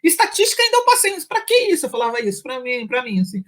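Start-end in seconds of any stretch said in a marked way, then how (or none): 0.0-1.9 exasperated complaint. Retold or imitated. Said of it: "eu peguei e falei assim".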